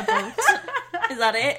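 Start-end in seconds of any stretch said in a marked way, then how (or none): 0.0-0.3 high-pitched Canadian accent try; attempted Canadian accent. Shown as a demonstration. Host dared to do Canadian, badly faked Canadian accent. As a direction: have a silly high go at Canadian. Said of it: "I can't do a Canadian accent".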